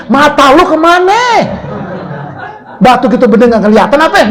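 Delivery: hammed-up marital scolding; quarrelling husband. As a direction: snap it like a fed-up husband. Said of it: "berantem cekcok di rumah tangga".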